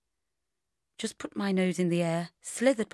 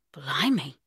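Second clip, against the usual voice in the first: usual speaking voice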